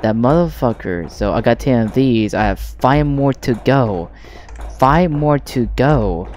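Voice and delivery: annoyed. Real, not acted. Raging at game progress.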